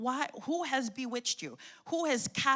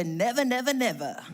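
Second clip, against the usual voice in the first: emphatic repeat; 5 dB louder than usual. Real, not acted. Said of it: "Turn to your neighbor, say".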